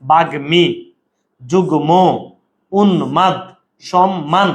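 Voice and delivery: বাগ্মী, যুগ্ম, উন্মাদ, সম্মান each with a clearly sounded m. Shown as a demonstration. Teacher gives examples of the rule, m sounded in বাগ্মী, যুগ্ম, উন্মাদ, সম্মান. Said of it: "ম ফলার উচ্চারণ হয়".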